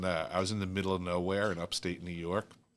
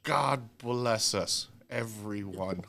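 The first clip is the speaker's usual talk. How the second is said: higher, very slow festive blessing; drawn-out benediction; 4 semitones higher, much slower than usual. Acted. Host giving the room a holiday blessing, drawn out. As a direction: draw each word out like a toast.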